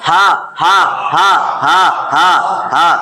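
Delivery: হা breathed from the base of the throat; breathy throat ha. Shown as a demonstration. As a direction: push হা out from the pit of the throat. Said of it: "এই গর্তের মধ্যে একটা আঙ্গুল দিয়া".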